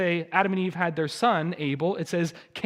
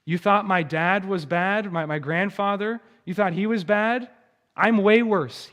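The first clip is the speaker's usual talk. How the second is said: mildly swaggering boast; brag, building to a louder claim; Lamech boasting; 3 semitones higher, 4 dB louder than usual. Acted. Lamech bragging he outdoes his grandfather, boastful. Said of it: "you hear Lamech boasting".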